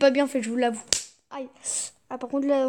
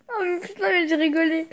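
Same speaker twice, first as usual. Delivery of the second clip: laughing; 3 semitones higher, faster than usual. Real, not acted. Cracking up at a joke.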